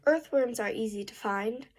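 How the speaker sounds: "find" lifts a little, as if asking; slight rising end. Real, not acted. Student rereading for the tutor, slight rise on "find". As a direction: let "find" drift up at the end. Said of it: "A little bit".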